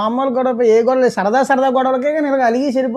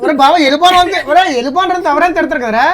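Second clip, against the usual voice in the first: talking through laughter, a bit louder; laughing; 5 semitones higher, 5 dB louder than usual. Real, not acted. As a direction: laugh off the scolding. Laughing after prank reveal. (నవ్వుతూ మాట్లాడుతూ)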